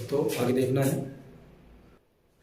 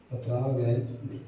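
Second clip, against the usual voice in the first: slow demo; 4 semitones lower, 6 dB quieter, much slower than usual. Shown as a demonstration. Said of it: "छोटी सी मात्रा है".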